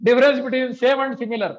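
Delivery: chuckling through the words; laughing. Real, not acted. Laughs while explaining difference.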